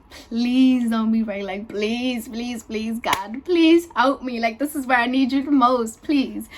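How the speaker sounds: drawn-out, imploring pleas; pleading prayer. Retold or imitated. Woman silently begging God in the bathroom, pleading. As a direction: retell a desperate plea to God. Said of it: "I was just praying to God".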